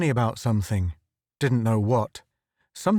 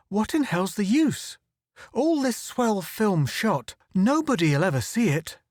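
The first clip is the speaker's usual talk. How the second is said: despairing; 8 semitones higher than usual. Acted. Photographer lamenting his film, bitter and despairing. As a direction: let the hopelessness drag.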